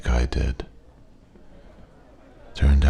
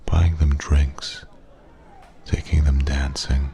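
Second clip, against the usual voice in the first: whispering. Acted. Wistful memory, whispered aside.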